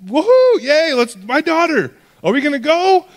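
an anxious father cheering too early; hammed-up frantic dad, hurry up; frantic impatience. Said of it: "he's sitting there going".

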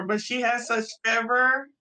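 talking around braces; words slurred by braces. Real, not acted. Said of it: "my braces are making me talk funny".

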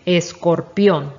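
"escorpión" lento, en tres sílabas: es-cor-pión; marcando las sílabas. Shown as a demonstration. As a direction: modela "escorpión" despacio para que se repita. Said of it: "tres sílabas". ("escorpión" pausado, sílaba por sílaba)

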